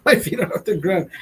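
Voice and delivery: high, laughing repeat; real giggly laughter under the words. Real, not acted. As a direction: squeeze the words out through laughter.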